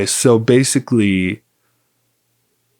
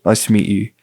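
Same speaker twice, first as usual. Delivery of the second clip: lightly put-on Australian accent; casual, amateur Australian accent; 2 semitones lower than usual. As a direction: play along as a would-be Melburnian with an Australian accent. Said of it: "I just played along with it".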